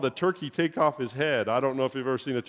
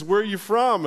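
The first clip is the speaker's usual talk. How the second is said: curious runner's question; 7 semitones higher, 5 dB louder than usual. Retold or imitated. Nervous runner asks at start line.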